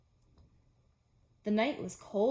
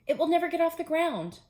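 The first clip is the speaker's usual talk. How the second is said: high and loud, near a wail; NEVER pushed up high and loud; upset Toad; 8 semitones higher, 6 dB louder than usual. Acted. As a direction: Toad cries it out in frustration. Toad repeating robins, upset.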